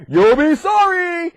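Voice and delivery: high, drawn-out taunt; sing-song mock threat. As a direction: tease out a slow, playful warning. Moses threatens Pharaoh.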